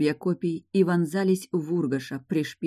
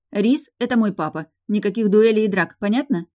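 loud, higher commanding voice; stern order; 4 semitones higher, 5 dB louder than usual. A narrator's reading. Daughter forbids the two men to duel, loudly. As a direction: lay down the law firmly.

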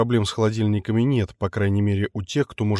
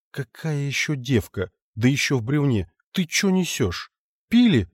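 incredulous; 3 semitones higher than usual. Acted. Lord's incredulous scolding.

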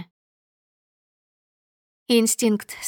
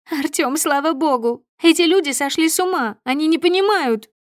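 high and loud, rushed; desperate rush of relief to her lover; frantic relief; 6 semitones higher, 4 dB louder than usual. A narrator's reading. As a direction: fling herself at him pleading. Clinging to him, pleading.

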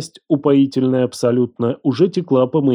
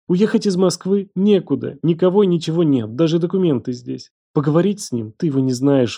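put-on higher girl's voice, pouring it out; desperate young woman; 3 semitones higher than usual. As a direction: spill out her fear and shame.

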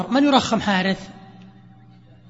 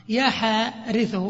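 slow cue word; much slower than usual. Shown as a demonstration. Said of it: "رخمها ثم أعطنا اللغتين فيها".

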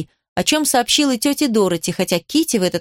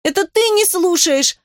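shrieking; 9 semitones higher than usual. A narrator's reading. Cecily shrieking back at her sister Kitty. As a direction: squeal it out in fury. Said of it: "взвизгнула Сиси".

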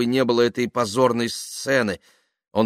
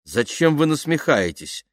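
higher-pitched, hurt protest; offended; 7 semitones higher, 3 dB louder than usual. A narrator's reading. Dasha objecting to being mocked, offended. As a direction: protest as if stung by teasing. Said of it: "обиделась она".

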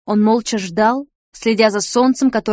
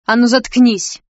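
a touch of a sharp snap; lashing retort; 3 dB louder than usual. A narrator's reading. Nika cutting off Sid's apology, mildly sharp. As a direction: cut him off sharply. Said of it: "голос так и хлестнул наотмашь".

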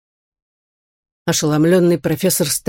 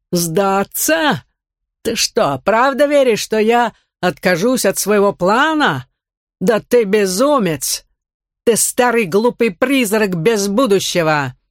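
a villain sneering, voice jumping high; mock him as a raving madman; scornful villain voice; 5 semitones higher, slower than usual. Villain Karkon mocks the professor.

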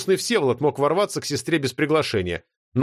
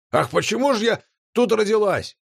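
high mocking imitation of a whiny girl; mimicking the girl; 8 semitones higher than usual. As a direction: ape her lament, higher. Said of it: "удачно передразнил голос Нотти". (передразнивая девочку)

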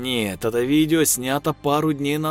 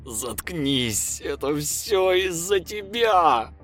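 through gritted teeth; 8 semitones higher, much slower than usual. A narrator's reading. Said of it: "процедил сквозь зубы Лев".

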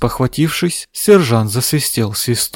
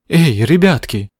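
alarmed; 3 semitones higher, 3 dB louder than usual. Acted. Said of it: "встревожилась Амбразина Стролло".

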